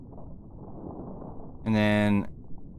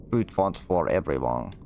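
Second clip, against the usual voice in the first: mock announcer; 7 semitones lower than usual.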